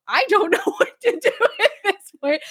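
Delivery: fast, high words cracking with laughter; laughing. Retold or imitated. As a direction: rush it out laughing. Laughing while quoting herself.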